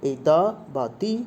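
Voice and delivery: slow, "the" said once as "di" and once as "da"; teacher slowly sounding out "the" two ways; both sounds of the. Shown as a demonstration. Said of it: "the বা the আমরা যাই বলি না কেন".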